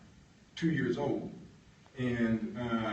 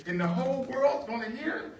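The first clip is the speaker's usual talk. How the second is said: meek worker; 12 semitones higher, 4 dB louder than usual. Retold or imitated. John checking eagerly.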